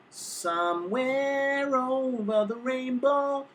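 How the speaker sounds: slow, pinched "Somewhere over the rainbow" with the larynx pulled up. Shown as a demonstration. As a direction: show the wrong, tight way. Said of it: "She's not singing".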